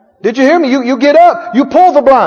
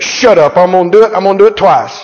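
lower, pushy brute of a flesh; bullying flesh; 4 semitones lower, faster than usual. Acted. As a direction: shove the spirit aside defiantly. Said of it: "the flesh says".

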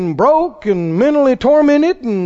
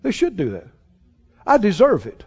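quick, softer whiny entitled voice; mock entitled voice; 6 dB quieter, faster than usual. Imitating an unthankful person's entitled grumble. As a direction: grumble it like you're owed. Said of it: "You're just like".

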